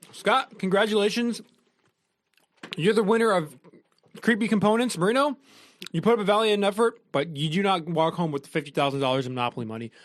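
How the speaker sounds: announcing the winner, host style; cheesy quiz host voice; game show host. Acted.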